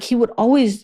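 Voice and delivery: ordinary talk, nothing marked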